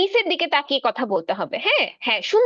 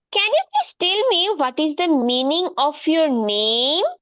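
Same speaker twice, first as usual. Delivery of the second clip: very slow, clearly spaced English; teacher modelling slow English for a shy pupil; much slower than usual. Acted. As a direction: lay out every word slowly for young learners.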